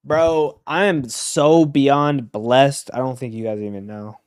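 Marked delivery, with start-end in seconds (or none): 0.0-2.9 emotional. Real, not acted. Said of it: "I don't know why I'm getting emotional".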